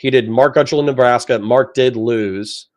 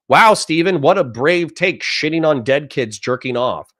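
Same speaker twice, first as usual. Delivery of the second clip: sarcastic fawning. Retold or imitated. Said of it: "quietly and go".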